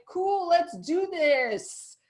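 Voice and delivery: slow, easy and confident; breezy confidence. Retold or imitated. Before a talk now, breezy and unbothered. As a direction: shrug it off, totally relaxed. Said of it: "Now I'm like".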